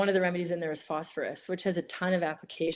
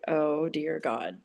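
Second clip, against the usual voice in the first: slow, drawn-out disbelief; skeptical scoff; much slower than usual. Retold or imitated. Sceptical student in homeopathy class, slow scoffing. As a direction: drag it out like a doubting student. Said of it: "I was like".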